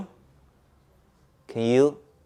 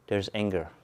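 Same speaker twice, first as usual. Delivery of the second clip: calm acknowledging; 3 semitones lower, 7 dB quieter than usual. Shown as a demonstration. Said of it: "Do you see the difference?".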